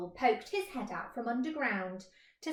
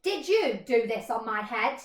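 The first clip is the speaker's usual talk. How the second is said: louder question; accusing question; 5 dB louder than usual. Acted. Mole questioning the cow, louder. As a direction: ask it firmly.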